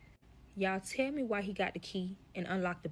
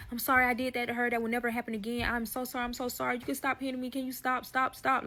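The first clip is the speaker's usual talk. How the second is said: pleading apology; 5 semitones higher than usual. Retold or imitated. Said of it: "close friend start apologizing".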